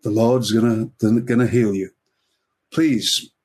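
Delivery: lightly put-on American preacher accent; a comic's mild attempt at an American accent; Billy Graham. Evangelist promising a man healing, light American accent. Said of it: "this is my American accent".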